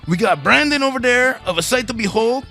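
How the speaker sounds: high, hammed-up radio host voice; gravelly metalhead. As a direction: play Paco Suave the game show host. Introduces self as Paco Suave, host voice.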